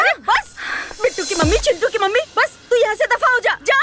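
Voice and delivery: fed-up, agitated outburst; angry dismissal. Acted. Jijji ordering her gossiping friend out, angry. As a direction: cut her off and send her away angrily. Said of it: "इतना काहे गुस्सा हो रही हो".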